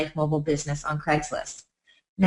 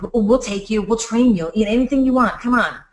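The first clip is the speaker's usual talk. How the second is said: needy begging; 3 semitones higher, 4 dB louder than usual. Retold or imitated. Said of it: "I'm just like".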